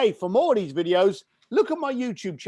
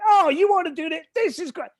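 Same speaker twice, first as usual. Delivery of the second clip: higher, louder burst of enthusiasm; enthusiastic; 8 semitones higher, 4 dB louder than usual. Retold or imitated. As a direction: sell it like you can't wait. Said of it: "then they hear me going".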